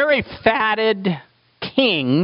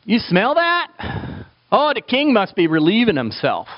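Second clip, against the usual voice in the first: servants sniffing; 4 semitones higher than usual. Retold or imitated. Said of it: "everybody goes".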